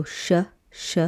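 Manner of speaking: sh hushed and held; sh sound. Shown as a demonstration. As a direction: demonstrate the sh hiss. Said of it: "It makes an S H sound".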